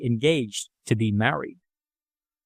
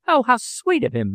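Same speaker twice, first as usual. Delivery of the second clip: thrilled by the gift; delighted exclamation; 9 semitones higher than usual. A narrator's reading. Daughter hearing of a gift, delighted high exclamation. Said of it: "Mary exclaimed".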